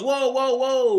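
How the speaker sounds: high, loud mock stop; the father cutting off the robot, high and loud; loud alarmed whoa. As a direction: throw up the brakes, loud and high. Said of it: "And he goes".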